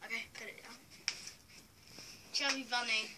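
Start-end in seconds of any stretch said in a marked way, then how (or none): 2.3-3.1 cheeks stuffed full. Real, not acted. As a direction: mouth full of chocolates. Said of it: "It's melting in my mouth".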